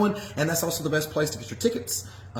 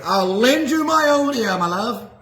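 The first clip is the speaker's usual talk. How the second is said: hammed-up sweet talk; 5 semitones higher, 5 dB louder, slower than usual. Hammy reply to co-host.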